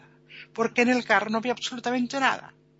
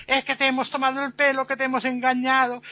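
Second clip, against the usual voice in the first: gleeful teasing; 3 semitones higher, 4 dB louder than usual. Acted. Crowd mocks the fooled captain.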